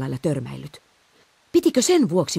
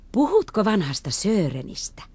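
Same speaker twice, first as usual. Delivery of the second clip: surprised question; 5 semitones higher than usual. Acted. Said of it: "Kaarina hämmästeli".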